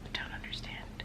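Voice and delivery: breathless whispered puzzlement; out of breath. Real, not acted. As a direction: whisper it, winded. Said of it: "I'm out of breath".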